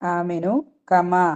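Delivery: very slow tajweed recitation of കമാ; slow Arabic recitation; Quranic recitation. Shown as a demonstration. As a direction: stretch the vowels slowly, reciting. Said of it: "കമ എന്നുള്ളതില് മീമിന്റെ".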